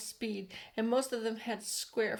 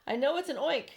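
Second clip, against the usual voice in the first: alarmed police chief; 5 semitones higher, 6 dB louder than usual. A narrator's reading. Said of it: "said the chief of police".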